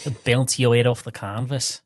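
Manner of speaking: Scouse attempt that slips into Irish; muddled Liverpool-Irish accent; badly done Scouse, sounding Irish; attempted Scouse turning Irish. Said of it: "That's Irish".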